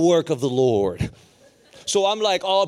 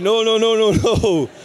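loud, raised string of noes; alarmed objection; 4 semitones higher, 7 dB louder, slower than usual. Retold or imitated. Preacher correcting cheering students, alarmed objection. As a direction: cut the crowd off loudly.

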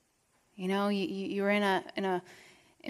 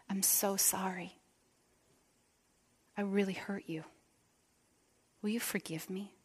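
whispered apology; 8 dB quieter than usual. Shown as a demonstration. Pastor showing a heartfelt apology, whispered. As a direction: breathe the apology into their heart. Speaking into another person's heart.

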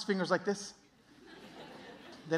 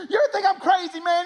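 frantic, high redneck yell; hammed-up redneck, loud and wild; redneck stranger; 10 semitones higher, 7 dB louder than usual. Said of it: "the most redneck human being you've ever met".

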